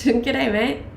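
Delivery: playful laughing go at an Aussie "Good day, mate"; Australian accent. Shown as a demonstration.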